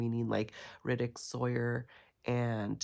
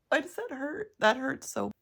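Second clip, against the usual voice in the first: laughing pain; 9 semitones higher, 4 dB louder than usual. Real, not acted.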